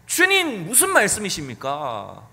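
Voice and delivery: 첫마디를 높이 치켜든 나무라는 말투; 스승을 나무라는 제자처럼 따지듯이; 꾸짖듯이. Retold or imitated. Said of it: "막 꾸짖듯이 얘기하는 거예요". (예수님께 따지는 베드로, 꾸짖는 말투)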